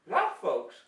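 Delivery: lightly hammed-up science host; like a cheesy kids' TV scientist; kids show host. Hammy scientist demo host.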